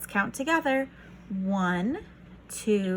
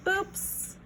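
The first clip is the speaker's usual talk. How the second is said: mock oops; 9 semitones higher, 5 dB quieter than usual. Wrong way on the track.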